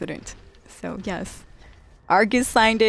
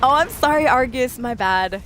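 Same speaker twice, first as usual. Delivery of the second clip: startled apology; 4 semitones higher, 5 dB louder than usual. Real, not acted. Apologizes after hitting his companion.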